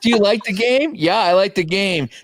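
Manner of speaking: a hint of a cartoon quizmaster, slow and drawn out; imitating cartoon game show. Friend recalls cartoon game, slow teasing quizmaster voice. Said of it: "the game they were playing".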